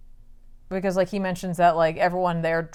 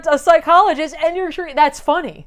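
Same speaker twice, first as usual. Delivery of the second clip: higher, louder mocking Joker voice; taunting Joker; 7 semitones higher, 6 dB louder than usual. Joker mocking the psychologist, higher and louder. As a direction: needle her with a grin, pitched up.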